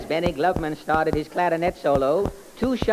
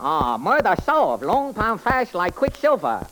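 sing-song comic detective character; 3 semitones higher than usual. Acted. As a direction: play the bumbling detective, chirpy. Detective boasting.

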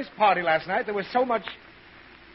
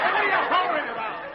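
high-pitched startled complaint; pained exasperation; 10 semitones higher, faster than usual. Acted. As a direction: scold while nursing the sore head. Father startled by holler.

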